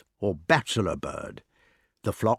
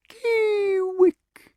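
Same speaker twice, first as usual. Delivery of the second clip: very high tender owl call. Shown as a demonstration. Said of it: "in tender accents if you're in love".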